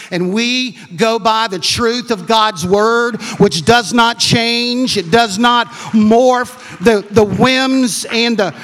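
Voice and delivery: slow, loud, weighty declaration; emphatic preaching. Acted. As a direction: drive each phrase home to the congregation. Preaches with full force.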